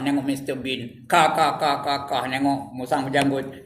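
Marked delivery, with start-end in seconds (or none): 1.1-1.8 mock laughter. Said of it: "Ketawa je kerjanya".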